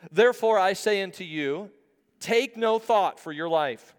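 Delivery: declaimed verse with a deliberate pause; emphatic Bible reading; scripture reading. Acted. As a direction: proclaim it from the pulpit. Reads scripture aloud to congregation.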